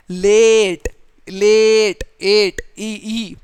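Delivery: लेट with a long held "ay", then ई alone; sounding out. Shown as a demonstration. Teacher isolating one vowel sound, लेट drawn out. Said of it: "एक vowel sound है".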